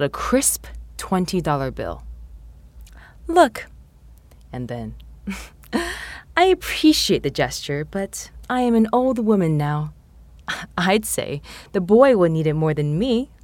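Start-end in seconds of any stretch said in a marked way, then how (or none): 3.3-3.7 put-on high, bright old woman's "Look"; an old lady insisting, raised pitch; elderly lady voice. A narrator's reading. Missus Cho offers the money. 6.4-13.3 put-on laughing old lady, half whispered; gentle old woman chuckling through it. A narrator's reading. Missus Cho declines politely.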